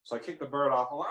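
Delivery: ordinary talk, nothing marked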